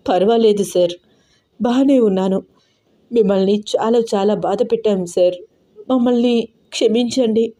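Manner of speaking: tearful. Acted. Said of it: "కన్నీళ్లతో అంది దీప".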